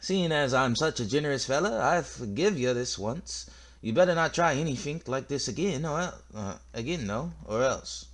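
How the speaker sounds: lightly hammed Scottish accent; aggressive Scottish accent. Warning a rival after letting it go once, Scottish accent. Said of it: "this aggressive, like, Scottish accent".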